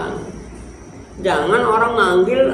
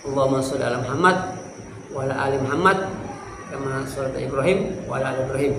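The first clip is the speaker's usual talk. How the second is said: recited salawat; 3 semitones lower, 5 dB quieter, much faster than usual. Shown as a demonstration. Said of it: "Kayak gitu".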